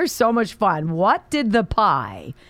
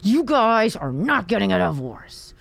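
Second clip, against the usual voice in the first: mock yell at dad; 4 semitones higher than usual. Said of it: "and yells at her father".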